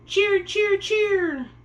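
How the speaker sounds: high, loud birdlike chirps; chirping sparrows. A narrator's reading. Sparrows calling to Pear Blossom, high bright chirps. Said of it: "the sparrows called".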